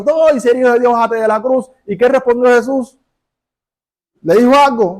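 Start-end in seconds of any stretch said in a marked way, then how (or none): 0.0-1.7 higher-pitched retold jeer; mock crowd shout. Crowd taunting Jesus on the cross, half-shouted imitation. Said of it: "La gente le estaban gritando".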